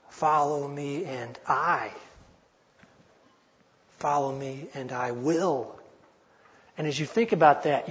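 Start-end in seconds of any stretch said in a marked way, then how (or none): 0.1-1.9 slow "Follow me and I" with the weight on "I"; stress on I. Shown as a demonstration. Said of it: "emphasize a different word". 4.0-5.8 slow "Follow me and I will" ending on "will"; deliberate, slow phrase that stops on a pressed "will"; stress on will. Shown as a demonstration. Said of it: "emphasize a different word".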